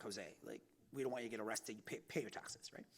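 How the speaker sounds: mock lawyers. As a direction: hush it like a careful lawyer. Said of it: "my lawyers are like".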